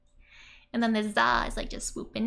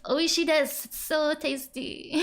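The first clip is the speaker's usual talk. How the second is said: gushing over tasty cake; excited little girl; 5 semitones higher than usual. Retold or imitated. Voicing Yotsuba, delighted by the cake, high and excited. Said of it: "So they call the chef".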